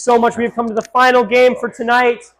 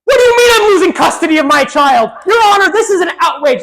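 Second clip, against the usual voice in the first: outraged; 5 semitones higher, 4 dB louder than usual. Acted. Outraged parent in court.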